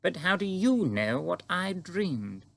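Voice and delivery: puzzled queen, pitched high; astonished queen. Acted. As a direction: admit it, then demand an explanation, slowing at the end. Voices the Queen of the story.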